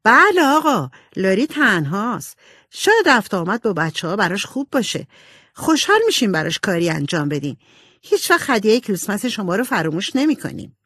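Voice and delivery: lightly voiced eager, polite girl; earnest Jo. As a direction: answer the old gentleman brightly and keenly. Jo answers Mr Laurence. (صدای نمایشی سبکِ دختری مؤدب و مشتاق)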